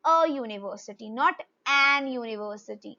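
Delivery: teaching slowly. Shown as a demonstration. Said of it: "इसीलिए".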